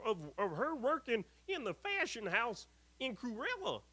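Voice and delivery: high put-on voice; reading comment in put-on voice. Reading a fan's comment aloud to viewers in a high put-on voice. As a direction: play the commenter as a silly character, pitched well up.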